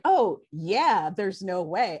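fake agreement. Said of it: "I had to pretend like".

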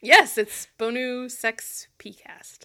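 slow, "Sex" split off from "Bonu"; stress on sex. Shown as a demonstration. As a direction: say "Bonu Sex P Cast" slowly, leaning on "Sex". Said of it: "The word sex is in there".

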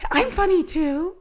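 hoarse, croaky voice from a cold; sick voice. Real, not acted. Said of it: "I like this new voice. The sick Jen voice".

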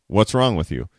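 blunt, accusing what's wrong; mild blaming tone; accusing question. Retold or imitated. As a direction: ask it like an accusation. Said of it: "the tone could be off".

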